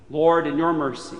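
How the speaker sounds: usual speaking voice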